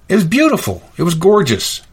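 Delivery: gushing; raving, high pitched. Real, not acted. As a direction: sing out the praise. Raving about cake.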